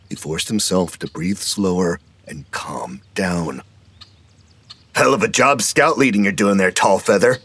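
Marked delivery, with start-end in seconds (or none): 4.9-7.4 louder mocking call across the yard. A narrator's reading. Hogan taunting Fred in front of everyone, calling out. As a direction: jeer at him from a distance. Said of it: "Hogan called out".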